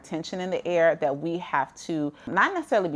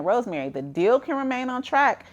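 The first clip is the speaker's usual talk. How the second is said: imagined viewer asking in higher-pitched disbelief; incredulous question; 7 semitones higher than usual. Pretend. Voices a doubting viewer's question.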